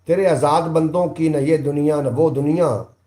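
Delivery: poetic recitation. Acted. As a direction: deliver the Urdu couplet like at a mushaira. Reciting a couplet.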